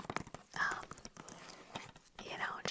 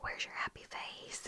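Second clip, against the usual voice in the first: whispered Southern drawl, slowed down; thick Southern accent. Retold or imitated. Quoting the assistant cheer coach, whispered Southern accent. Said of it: "really thick Southern accent".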